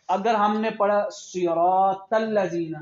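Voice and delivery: صراط الذین with الذین said as "alːəzin", a z sound; wrong way: الذین with z; wrong pronunciation demo. Shown as a demonstration. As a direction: show the mistake, الذین with z. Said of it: "تو نماز نہیں ہوگی".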